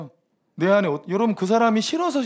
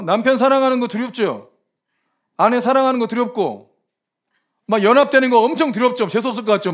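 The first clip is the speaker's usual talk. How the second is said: rising preaching push; 4 semitones higher, 5 dB louder than usual. Acted. Preacher pressing the congregation.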